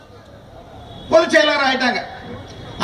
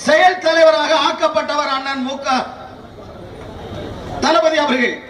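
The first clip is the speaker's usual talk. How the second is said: thunderous political oratory. Acted. Political speech building to applause lines.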